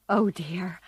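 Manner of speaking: startled little whisper. Acted. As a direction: breathe it out, caught off guard. Startled finding someone hidden.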